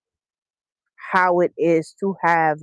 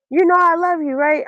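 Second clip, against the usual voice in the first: much higher, pleading tearful quote; imitated tearful teacher; 11 semitones higher than usual. Tearful teacher checking that her student knows she's loved, imitated crying voice. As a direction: mimic her crying, pitched way up. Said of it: "she just starts crying".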